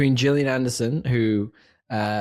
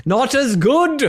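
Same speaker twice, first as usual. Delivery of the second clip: mock disappointed; 12 semitones higher, 6 dB louder, much slower than usual.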